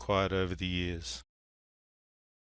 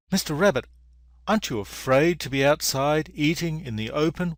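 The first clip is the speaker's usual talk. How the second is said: lightly voiced bunny, pitched up; higher-pitched acted questioning; worried bunny; 4 semitones higher than usual. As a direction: ask as a concerned little storybook bunny.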